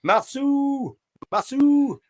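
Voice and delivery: calling out. Real, not acted. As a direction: call the name to get attention.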